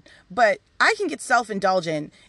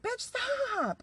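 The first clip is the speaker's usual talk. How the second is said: high, soft teasing scold; mock spirit voice; 11 dB quieter than usual. Spirit scolding her, high and teasing. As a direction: squeak it out like a playful spirit.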